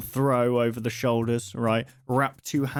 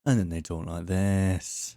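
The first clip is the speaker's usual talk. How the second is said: slow, lower and grave anchor read; news reporter voice; 4 semitones lower, slower than usual. Shown as a demonstration. Mocking how news reporters talk, slow low grave anchor voice. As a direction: sink into a serious broadcast tone. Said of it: "news reporters still speak".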